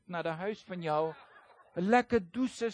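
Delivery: talking through a laugh. Retold or imitated. Pastor tells Ronnie he looks forward to the shower, laughing. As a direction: let a chuckle run through the words.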